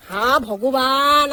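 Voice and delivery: slow, drawn-out dismay; dismayed groan. Real, not acted. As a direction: stretch out the sigh of dismay.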